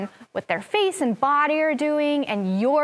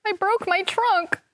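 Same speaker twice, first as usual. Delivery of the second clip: Gerald the elephant; 8 semitones higher than usual. Acted. Reading Gerald's line.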